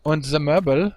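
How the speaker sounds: high, loud hammed-up German accent. Streamer asking his German viewers, in a mock German accent. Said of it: "ask them with the German accent".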